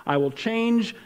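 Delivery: slow, formal decree; solemn slow reading of God's decree; legal proclamation. Acted. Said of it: "like a legal proclamation".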